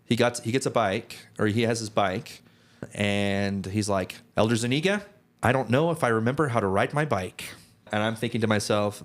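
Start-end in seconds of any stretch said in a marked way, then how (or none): 4.3-7.5 lightly imitated high-pitched, nasally voice; a hint of a nasally companion, pitched up; Elder Spry. New missionary confessing to his trainer about the bike, lightly imitated nasally voice. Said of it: "He has a high-pitched, like, nasally voice".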